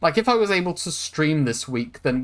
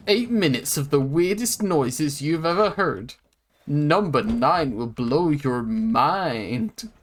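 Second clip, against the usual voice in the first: clickbait video narrator; slower than usual. Pretend. Mock clickbait video teaser.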